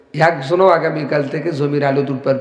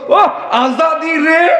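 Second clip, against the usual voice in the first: wailing plea; 12 semitones higher, much slower than usual. Retold or imitated. Preacher mimics wailing prayer.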